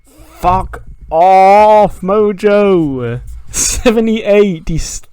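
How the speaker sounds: angry outburst. Real, not acted. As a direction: blow up at the game in frustration. Real frustration at low match rating.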